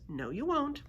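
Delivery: reassuring. A narrator's reading. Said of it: "Ivy reassured him".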